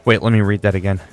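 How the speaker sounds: ordinary delivery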